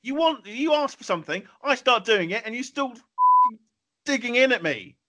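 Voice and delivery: high-pitched, aggrieved protest; exasperated complaint. Real, not acted. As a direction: protest at being needled, pitch jumping right up. Host complains about being needled.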